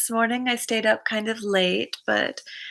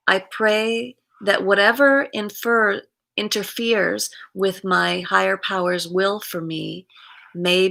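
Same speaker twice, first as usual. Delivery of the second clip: measured daily-reading delivery; reading aloud; 3 dB louder than usual. Acted. Host reading September fifth's reflection to viewers, read aloud. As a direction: read it out in phrases, leaning on key words. Reads reminder and quote aloud.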